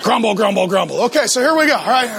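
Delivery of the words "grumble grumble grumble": falling, muttered mock complaint; mock grumbling. Husbands complaining about church, mock grumbling. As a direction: grumble it, sinking lower.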